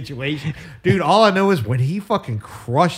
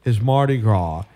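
1: fed-up outburst; 4 semitones lower, 4 dB louder, slower than usual. Acted. Fickle breaks down over cancelled Mardi Gras.

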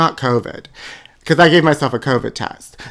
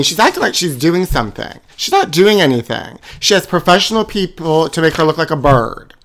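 usual speaking voice

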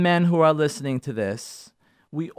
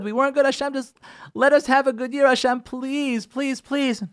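pleading with God; 5 semitones higher than usual. Retold or imitated. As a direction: plead for forgiveness, voice going up. Begging Hashem to forgive sins.

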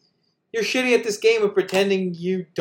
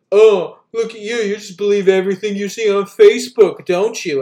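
louder, exaggerated condescending jab; mock condescension; 5 dB louder than usual. Online rando replying to a shared post, mock condescending. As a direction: put on a mocking commenter's put-down.

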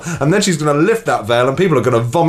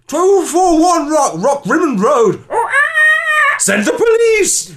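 frantic high shrieking 911 caller; panicked caller; 11 semitones higher than usual. Acted. Frantic caller screaming at the dispatcher. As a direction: scream for help like it's life or death. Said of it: "you be dispatcher, and I'll be herald".

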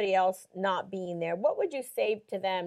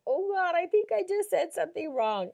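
retold dismay; 7 semitones higher than usual. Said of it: "the look on her face".

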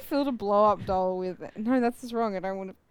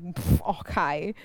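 sarcastic snort; 7 semitones lower, much slower than usual. Retold or imitated. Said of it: "like a sarcastic".

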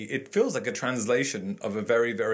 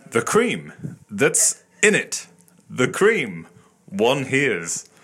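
dramatic reading; 4 dB louder, much slower than usual. Shown as a demonstration. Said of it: "please read the computer-generated".

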